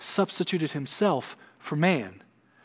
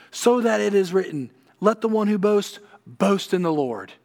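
louder, higher proclamation; preacher proclaiming the verse to the church; proclaiming scripture; 6 semitones higher, 5 dB louder than usual. Acted. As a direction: ring out the verse with conviction.

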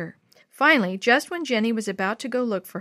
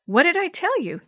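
high, louder, happy and triumphant; 9 semitones higher, 5 dB louder than usual. A narrator's reading. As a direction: crow it happily to a friend. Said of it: "Natalie said happily".

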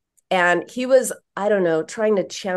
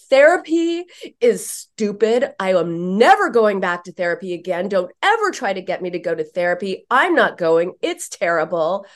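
mock teen rant. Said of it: "I said that last part just for dramatic emphasis".

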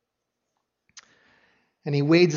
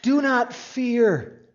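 slow and higher, gently soothing; comforting shepherd; 6 semitones higher, much slower than usual. Acted. Jesus calming the grieving father, slow gentle comfort. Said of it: "Jesus is a shepherd here who comforts".

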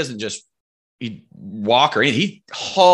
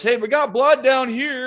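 high, calling-out mock yell; retold yell; 13 semitones higher, 3 dB louder than usual. Hunters on the road calling up, high mock yell. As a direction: call it down the hill, pitched way up. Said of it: "they yell at us".

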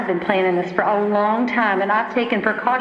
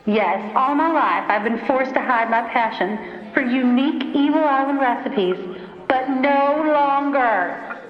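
villain monologue. Acted. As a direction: gloat like a cartoon villain. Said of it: "She's monologuing".

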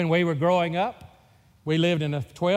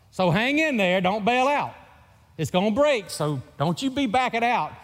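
raised, louder coaxing call to the batter; mock coaching call; 5 semitones higher, 3 dB louder than usual. To brother at the plate, louder teasing coaching. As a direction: egg him on, higher and louder.

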